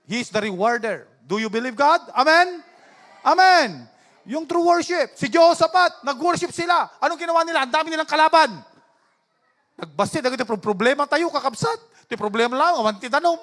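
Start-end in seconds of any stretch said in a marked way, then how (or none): 0.1-8.6 raised, emphatic preacher voice; preaching. Real, not acted. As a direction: press the congregation for an amen. Preaches to congregation. (masiglang pangangaral)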